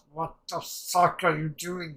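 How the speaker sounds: acted exasperated outburst; retold exasperation. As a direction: drag it out in loud disbelief. Retelling an exasperated reaction to Gabby.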